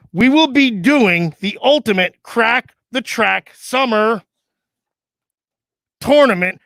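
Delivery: slow formal reading; announcement read. Acted. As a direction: read the fax like a bulletin. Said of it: "hard to read with this gimmick on".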